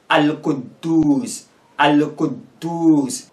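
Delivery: "Al-Quddus" slowly, first D a silent stop; teacher's slow "Al-Quddus" with shadda on D; doubled D. Shown as a demonstration. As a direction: hold briefly on the D in "Al-Quddus". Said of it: "as if the first D is silent".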